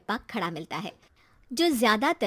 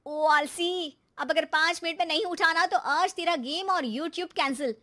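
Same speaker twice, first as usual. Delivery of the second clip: louder scolding threat; 4 semitones higher, 4 dB louder than usual. Acted. Mother scolding lazy son awake, loud threat. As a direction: tell him off to wake him.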